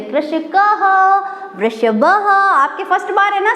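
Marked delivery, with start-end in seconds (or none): 0.0-0.8 कृषकः said with a distinct final "ह" breath after the अ; visarga sounded. Shown as a demonstration. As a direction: say कृषकः fully, letting the visarga ring out as "ह". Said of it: "कृषक पढ़ के छोड़ दिया तो अशुद्ध है". (कृषकः में विसर्ग को "ह" की तरह साफ़ बोलें)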